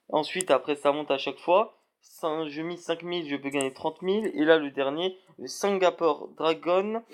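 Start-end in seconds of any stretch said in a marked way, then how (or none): 5.5-7.0 French-accented English, drawn out; rough attempt at English pronunciation, heavily French-accented; bad English accent. Real, not acted. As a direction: say the English name slowly in a clumsy French accent. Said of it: "mon accent anglais tout pourri".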